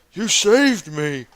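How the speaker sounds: high, slow, hammed-up thanks; grateful man. Man on the ground thanking the thief, hammed-up gratitude. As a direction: overplay the relief. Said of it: "he's like".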